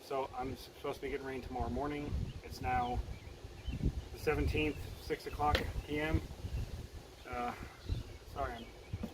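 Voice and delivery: winded after a workout; panting softly between words; out of breath. Real, not acted. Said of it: "still catching my breath".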